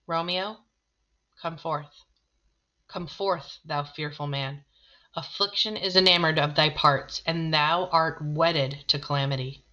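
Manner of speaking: Shakespeare read aloud, measured and solemn; dramatic reading. Acted. Teacher reading Friar Lawrence's lines aloud, solemn reading.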